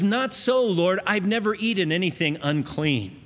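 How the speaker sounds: a hint of Peter balking at the Lord; indignant protest. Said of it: "Peter says".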